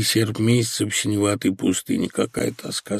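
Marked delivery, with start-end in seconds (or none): 2.1-3.0 quiet despair. Acted. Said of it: "сказал он".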